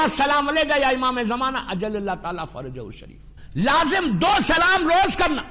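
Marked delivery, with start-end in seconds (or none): 0.0-3.4 devotional salutation fading to a hush at the end; recited greeting. Shown as a demonstration. Preacher repeats the morning salutation for listeners, hushed prayer. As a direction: let the prayer sink to a murmur. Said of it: "سر پہ ہاتھ رکھ کے بولنا".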